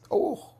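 a sudden high yelp of surprise; mock yelp. Retelling the engineer's startled yelp, high yelp. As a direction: yelp like someone caught off guard. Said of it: "then I get a yelp".

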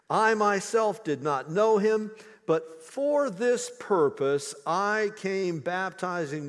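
measured, earnest Bible reading; scripture reading. Acted. Preacher reading the Gospel to his congregation, solemn reading. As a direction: read it slow and weighty to the church.

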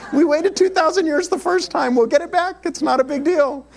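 hammed-up, high-pitched Jewish English voice; amateur imitation of a Jewish accent, way up high. Israeli friend shrugging off losing the land, mock Jewish accent. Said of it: "in his very Jewish English voice".

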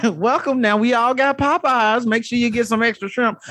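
lightly voiced folksy pilot; Annie voice. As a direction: announce the flight cheerfully. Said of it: "Annie, your pilot".

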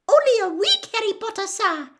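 high, loud squeaky elf voice, happy; a delighted little elf answering; happy house elf. A narrator's reading. Dobby answering Harry, high squeaky and happy. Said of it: "said Dobby happily".

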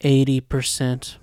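slow, subdued deadpan quote; devoid of emotion. Retold or imitated. Host quoting Aaron's confession to Armin, devoid of emotion. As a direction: imitate him saying it slowly, with all feeling drained. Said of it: "he's talking like this, and he's av-, devoid of all emotions".

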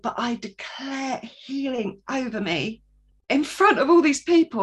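sudden bold declaration. Retold or imitated. Speaking up at a prayer meeting, rising to a bold declaration. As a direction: declare it boldly to the room. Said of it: "And then I suddenly went".

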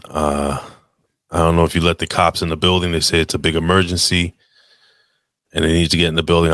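groggy, just-woke-up voice; sleepy voice. Pretend. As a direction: sound half asleep on the phone. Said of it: "Here goes my sleepy voice".

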